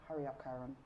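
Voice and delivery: low-key impatient prod at her son; impatient hurry-up. Retold or imitated. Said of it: "I'm like".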